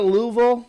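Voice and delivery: "Louisville" squashed to two syllables, LOO-vul; local pronunciation. Shown as a demonstration. Streamer trying the local name on viewers, local pronunciation. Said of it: "I feel like I'm making fun of 'em".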